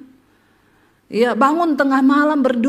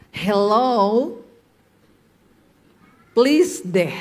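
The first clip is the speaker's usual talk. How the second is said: put-on Jaksel girl; 4 semitones lower, much slower than usual. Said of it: "Gaya-gaya anak Jaksel".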